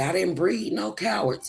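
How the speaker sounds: a hint of a stern country father; lightly voiced dad laying down the law; imitating daddy. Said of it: "He would always say".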